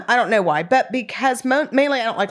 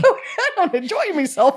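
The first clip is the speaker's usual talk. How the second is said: laughing pirate drawl, slowed; hammed-up pirate, high and laughing; 8 semitones higher, slower than usual. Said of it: "I'm not a pirate".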